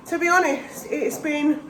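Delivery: slightly breathless from a chest infection; out of breath. Real, not acted. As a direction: speak while short of breath. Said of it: "I'm still a little bit out of breath".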